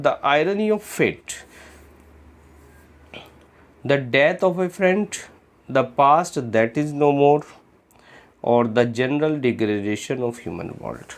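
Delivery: unhurried dictation of the answers; slow option reading. Shown as a demonstration. Teacher to students reading answer choices, slow and clear. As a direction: read each choice slowly and clearly.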